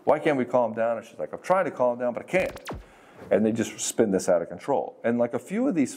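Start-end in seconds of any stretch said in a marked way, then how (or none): 0.0-1.0 mock frustration, pitched up at the start; mildly angry quote. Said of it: "he just gets angry". 1.3-2.7 mock-flustered, helpless protest; upset arguing partner. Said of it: "it becomes this fight".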